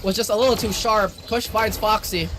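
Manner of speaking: breathless high excited casting; gasping for air mid-call; out of breath. Real, not acted. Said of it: "I'm running out of breath here".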